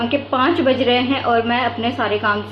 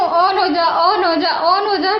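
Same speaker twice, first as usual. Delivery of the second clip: higher-pitched, repeated pleading command; urging; 5 semitones higher than usual. Retold or imitated. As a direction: coax a stubborn machine to switch on. Urging a stuck TV on.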